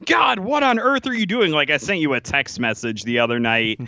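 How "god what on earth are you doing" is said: high, exasperated complaint; mock outrage, pitched high; exasperated fan. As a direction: imitate a fed-up fan yelling at the team. Acted frustrated fan reaction.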